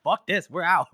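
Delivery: loud, laughing retreat. Retold or imitated. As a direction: bail out with a laugh. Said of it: "They're like".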